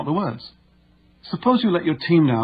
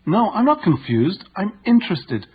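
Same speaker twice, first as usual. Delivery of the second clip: incongruent tone; 7 semitones higher than usual. Retold or imitated. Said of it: "a tone of voice that was incongruent with her words".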